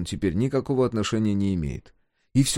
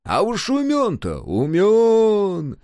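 very high, stretched praise; high, loud, awed boasting; boastful admiration; 12 semitones higher, 6 dB louder, much slower than usual. A narrator's reading. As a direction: gush with pride, drawing it out. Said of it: "словно бы похвастался Ухмыл".

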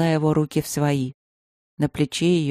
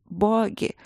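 laughing through pain; 4 semitones higher than usual. Acted. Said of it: "простонала она сквозь то ли смех, то ли рыдание".

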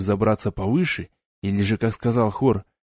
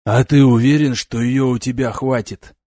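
louder questioning with a touch of doubt; doubtful; 3 semitones higher, 6 dB louder than usual. A narrator's reading. Demon asks Alex whether he has enough power, doubtful. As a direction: press the question, mildly sceptical. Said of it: "с сомнением спросил демон".

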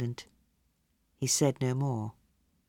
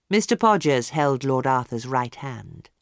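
ordinary delivery

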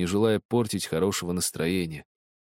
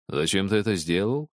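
ordinary delivery

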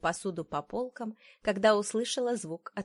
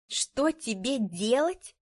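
higher, drawn-out indignant echo; voice breaking; 5 semitones higher, 4 dB louder, slower than usual. A narrator's reading. Wife throwing husband's words back, voice cracking. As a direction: throw the question back, stretched and high. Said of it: "Мой голос сорвался".

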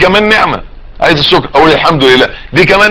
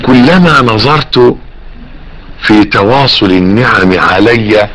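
measured classical Arabic reading, phrase by phrase; slow formal quotation; slower than usual. A narrator's reading. Preacher quoting Ibn al-Jawzi to listeners, slow and formal. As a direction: read it out slowly and deliberately.

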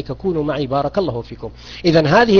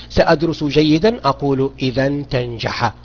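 example sentence; 3 semitones lower than usual. Shown as a demonstration. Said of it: "وقال لي".

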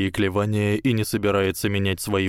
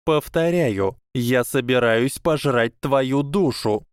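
slow, menacing and higher; 4 semitones higher, slower than usual. Acted. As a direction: spell out the threat slowly. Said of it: "угрожающе пояснила Трейси". (угрожающе и медленно)

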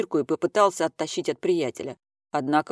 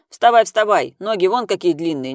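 barking order; 3 semitones higher, 8 dB louder than usual. A narrator's reading. Gnuty keeps ordering him up.

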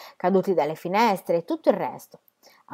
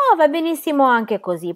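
higher, louder protest; an emphatic, raised objection; 8 semitones higher, 5 dB louder than usual. A narrator's reading. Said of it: "protestò Sterret".

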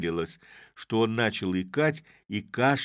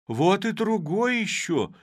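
high, slow frightened shout; fearful cry; 13 semitones higher, 7 dB louder than usual. A narrator's reading. Weaver crying out as another man climbs out, high and afraid. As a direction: recoil at a second body in the sack. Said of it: "вскрикнул со страхом ткач".

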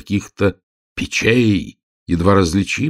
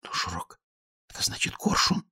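breathy whisper, much softer; whispered explanation; 11 dB quieter than usual. A narrator's reading. Girl whispering to her friend what the name means. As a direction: lean in and whisper it. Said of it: "тихонько пояснила Ело".

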